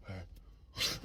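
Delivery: barely voiced, weak reply; whispered acceptance. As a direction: let it out on a breath. Dazed reluctant reply to friends.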